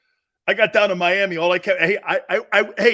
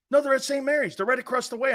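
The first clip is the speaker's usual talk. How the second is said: higher-pitched, insistent mock reply; 6 semitones higher, much faster than usual. Recruiter explaining where the girls are, insistent. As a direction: imitate a coach defending himself. Coach insisting, in retold exchange.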